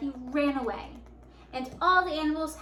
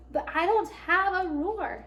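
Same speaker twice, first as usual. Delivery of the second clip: higher, mildly plaintive; sad; 6 semitones higher, 3 dB louder than usual. A narrator's reading. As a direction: lament it like a downhearted lion. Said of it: "said Lion sadly".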